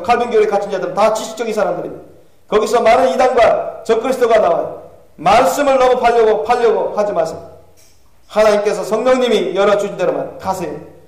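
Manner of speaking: urgent plea from a damned soul; lightly acted, impassioned warning from hell; Calvin's warning. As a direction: implore listeners with preacher-like insistence.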